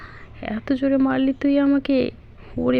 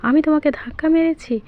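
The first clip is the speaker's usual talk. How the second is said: indignant shout; 4 semitones higher, faster than usual. Acted. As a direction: shout back, offended. Car protests being blamed.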